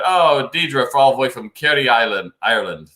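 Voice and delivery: a clumsy attempt at an Irish accent; jokey, badly done Irish accent. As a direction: greet her in a hammed-up Irish lilt. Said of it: "terrible Irish accent".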